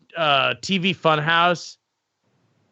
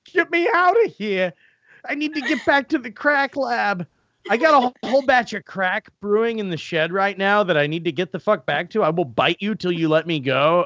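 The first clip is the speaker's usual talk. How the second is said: frantic dog voice. Acted. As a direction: play the dog pleading to get out. Voicing the dog.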